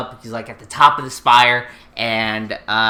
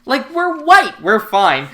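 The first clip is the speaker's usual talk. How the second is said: mock smug bully; 8 semitones higher, 6 dB louder, slower than usual. Voicing smug bullies.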